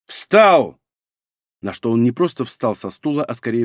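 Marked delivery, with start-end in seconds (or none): 0.1-0.8 barked command. A narrator's reading. Master barks an order.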